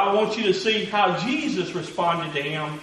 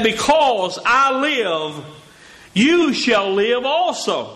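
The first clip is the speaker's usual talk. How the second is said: slow solemn quote; slower than usual. Acted. Pastor quoting Jesus slowly.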